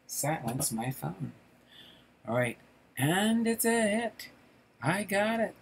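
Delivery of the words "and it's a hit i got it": high-pitched, excited ballgame call; excited play call. Acted. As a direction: call it like a fly ball coming in. Calling the play, voicing eager fielders.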